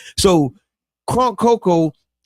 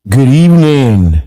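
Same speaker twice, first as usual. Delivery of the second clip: deep radio voice; 3 semitones lower, 9 dB louder, slower than usual. Acted. Radio host deep greeting.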